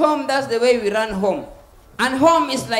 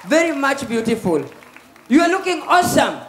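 excited compliment; 2 semitones higher than usual. Real, not acted. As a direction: lift it up with delight. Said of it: "jipigieni makofi".

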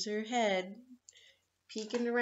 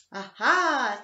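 sly aha; 6 dB louder than usual. Acted. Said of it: "thought Cat with a sly little smirk".

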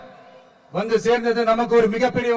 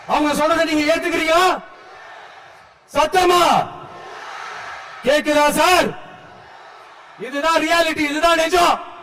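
raised, higher call to the crowd; 5 semitones higher than usual. Real, not acted. Speaker rousing the crowd at the rally, raised call.

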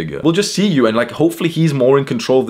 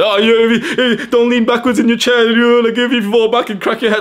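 much higher, louder whiny mock teacher voice; imitating a teacher scolding a pupil for leaning back; 12 semitones higher, 5 dB louder than usual. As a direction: lampoon the nagging teacher, stretched out at first. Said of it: "the fucking dumbass teacher was".

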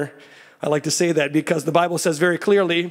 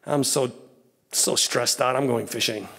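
softer, lower, worn-out sigh of a line; weary Peter; 4 semitones lower, 4 dB quieter than usual. Retold or imitated. Preacher voicing Peter giving up, mildly weary. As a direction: let Peter sound defeated and tired. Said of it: "What did Peter say?".

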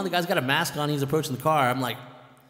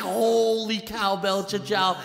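retold flipping out; 4 semitones higher, 4 dB louder, slower than usual. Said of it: "I was flipping out".

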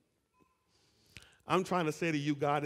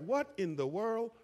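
higher, astonished exclamation; amazed crowd member; 6 semitones higher than usual. Retold or imitated. Crowd member hearing his own dialect, higher and astonished. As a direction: gasp it out in wonder. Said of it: "somebody else heard their dialect".

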